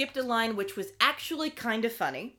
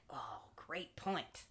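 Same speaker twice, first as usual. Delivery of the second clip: mock agreement; 5 semitones lower, 16 dB quieter, much slower than usual. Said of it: "David's like".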